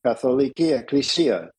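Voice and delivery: Katholiki Ekklesia said quickly in Greek; Greek pronunciation. Shown as a demonstration. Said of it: "there's a bunch of Greek for you".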